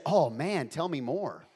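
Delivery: loud mock innocence; put-on concerned surprise; feigned naive. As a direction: play dumb, as if hearing it first. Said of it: "act really, really naive".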